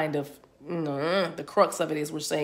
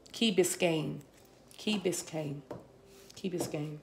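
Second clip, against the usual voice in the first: softer murmured place name; soft entranced repeats; 7 dB quieter, slower than usual. Real, not acted. Psychic reader murmuring a place name she receives. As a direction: murmur it as if listening inward.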